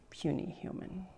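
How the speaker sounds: hushed growl of the Hulk. Retold or imitated. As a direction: sneer it like the Hulk. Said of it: "kind of like the Hulk".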